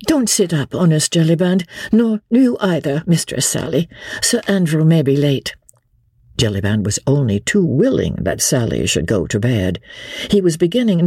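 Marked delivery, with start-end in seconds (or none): 0.1-5.6 higher, composed noble lady; lady Marguerite. Acted. Lady Blakeney instructs the innkeeper, poised and earnest.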